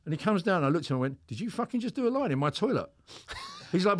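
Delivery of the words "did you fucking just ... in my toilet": incredulous confrontation. Retold or imitated. Therapist confronts client over drug use.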